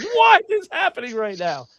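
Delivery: high, dazed disbelief; bewildered. Retold or imitated. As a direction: ask it like the world just flipped. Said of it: "I was like".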